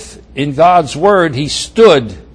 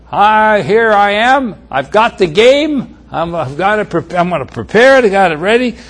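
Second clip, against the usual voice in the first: bright, raised, eager voice; eager Esau; 5 semitones higher, 4 dB louder than usual. Acted. Esau announcing to his father, eager. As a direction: Esau bursting in with the game.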